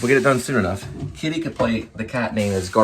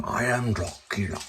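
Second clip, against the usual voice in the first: a hint of slow, soft Dracula; lightly voiced vampire, drawn out; Gary Oldman's Dracula; 6 dB quieter than usual. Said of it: "I can do Gary Oldman".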